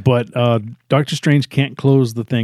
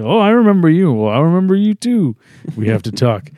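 mock dramatic reunion; 5 semitones higher than usual.

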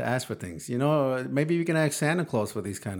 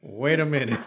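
laughing; 5 semitones higher than usual. Real, not acted. Dad repeats son's quote, laughing.

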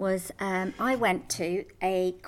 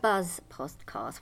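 usual speaking voice

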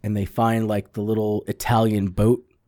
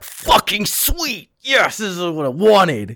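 secret glee; 6 semitones higher, slower than usual. Retold or imitated. Inner thoughts, gleeful secret delight.

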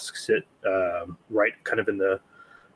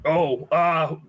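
put-on higher, wry old man; old shopkeeper voice; 6 semitones higher than usual. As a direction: shrug it off like a kindly old man. Old man answers about his eyes.

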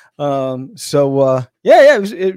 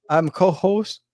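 put-on New York accent. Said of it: "Lori said she'll co-host in a New York accent".

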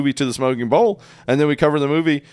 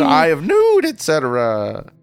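witch voice; 2 semitones higher than usual. Acted. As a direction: join in as a witch. Joining the witch bit.

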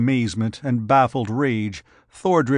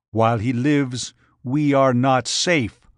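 a touch of a giant's growl, slowing down; understated menace; mild growl. Acted. Giant refusing to flee from Ardath, mild growl. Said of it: "Thordred growled".

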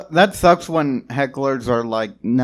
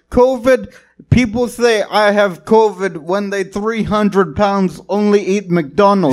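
put-on Nepali accent; 6 semitones higher than usual. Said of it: "do a Nepali accent".

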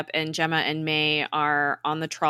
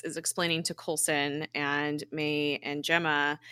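ordinary delivery

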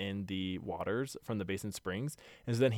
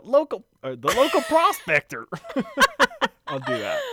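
laughing high; 11 dB louder than usual. Real, not acted. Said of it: "try and do".

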